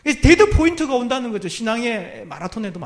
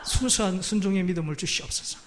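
mock prayer; 5 semitones lower, 8 dB quieter than usual. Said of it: "이렇게 교만에 기도하고 있어요".

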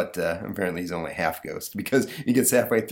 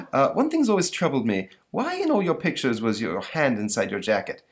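curious monster voice; 5 semitones higher than usual. Acted. The monster asks Napoleon.

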